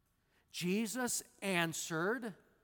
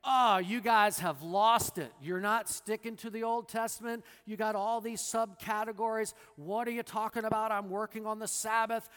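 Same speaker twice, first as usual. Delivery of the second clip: mocking dismissive retort; 4 semitones higher, 4 dB louder than usual. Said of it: "He doesn't say".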